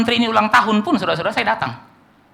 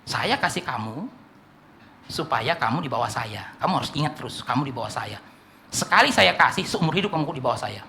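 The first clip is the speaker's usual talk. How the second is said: quiet menace; 5 semitones lower, 5 dB quieter than usual. Acted. Patron voiced telling client his place.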